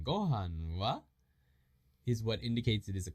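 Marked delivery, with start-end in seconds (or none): 0.0-1.0 slow "Gohan wa" rising at the end; rising intonation. Shown as a demonstration. Teacher showing the question mark, with rising intonation. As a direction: lift "wa" into a question. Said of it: "that intonation rising".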